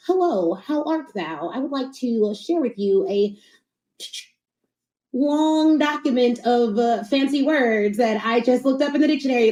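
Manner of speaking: lightly hammed-up stuffy business talk; stiff corporate voice. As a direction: parody the buttoned-up corporate pitch. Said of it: "They get into corporate, they're like".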